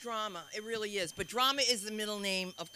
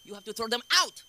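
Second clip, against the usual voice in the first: "You get out" said louder and sharper; telling her off; 2 semitones higher, 8 dB louder than usual. Retold or imitated. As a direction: order her out, raised voice. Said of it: "I said".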